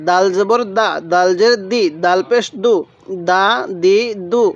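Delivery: দাল and দা with a firm, hard d; spelling drill, দা দি দু with a strong d; firm D sound. Shown as a demonstration. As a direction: press the d hard in দা, দি, দু. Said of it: "দালটা শক্তভাবে উচ্চারণ করব".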